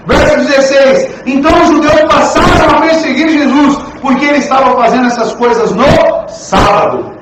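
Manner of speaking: high, loud revival preaching; fervent preaching. Acted. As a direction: preach with rising fervor. Preaching at full force.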